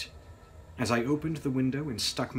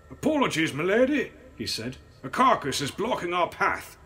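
a hint of a portly coachman, louder; driver's voice; 8 semitones higher, 7 dB louder than usual. A narrator's reading. Driver apologizing to the lady, lightly voiced. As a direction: answer the lady respectfully.

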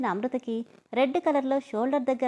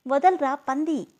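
angry yell; 4 semitones higher, 4 dB louder, slower than usual. Acted. Girl struggling, arm twisted.

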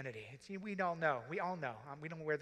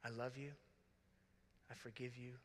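softer repeat; 2 semitones lower, 9 dB quieter than usual. Shown as a demonstration. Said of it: "three hard words to say".

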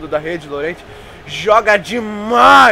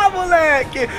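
excited; 7 semitones higher, slower than usual. Real, not acted. Celebrating own goal, crying out.

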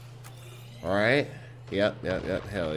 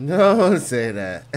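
mocking imitation; 5 semitones higher, 6 dB louder, much slower than usual. Mocking the droid's scared line.

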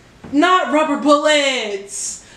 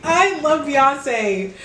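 slow adoring; much slower than usual. Real, not acted. Overwhelmed fan reaction.

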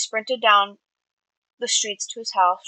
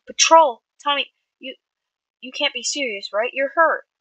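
higher, alarmed protest; worried; 5 semitones higher, 5 dB louder than usual. A narrator's reading. Friend stopping injured boy from patrol, worried. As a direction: burst out loud, then plead in worry. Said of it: "worry sparkling in his gaze".

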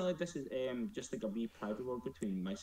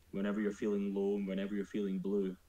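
poem recital; 3 semitones lower, faster than usual. Acted. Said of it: "I'm like fucking Shakespeare".

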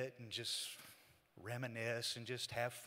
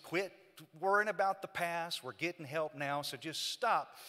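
raised, emphatic retelling of a rebuke; insistent urging; 4 semitones higher, 4 dB louder than usual. Retold or imitated. Man urges his brother to stop worrying, insistent urging. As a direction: press him to let it go.

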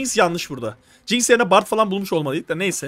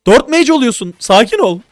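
higher and louder, rushing instructions; excited loud coaching; 5 semitones higher, 8 dB louder than usual. Real, not acted. Coach to teammate placing units, excited loud instructions. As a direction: pile on the orders, keyed up and loud.

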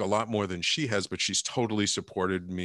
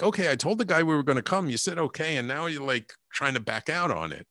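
a little angry; 4 semitones higher than usual. Retold or imitated. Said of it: "a little angry almost".

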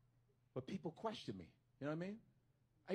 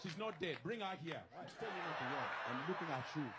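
Nigerian cousin. Retold or imitated. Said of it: "the way they talk to women".

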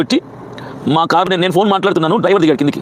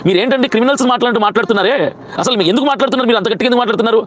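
higher-pitched indignant retort; retold protest; 3 semitones higher, faster than usual. Speaker to the constables shouting at him, indignant and higher. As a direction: push back hard at the constables, pitched up. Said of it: "గట్టిగా మాట్లాడితే నేను అన్నాను".

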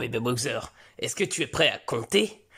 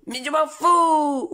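louder, slow stubborn yell; mock angry shout; 11 semitones higher, 6 dB louder, slower than usual. Son yelling at his father, slow mock-angry shout. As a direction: throw it back at dad. Son's outburst.

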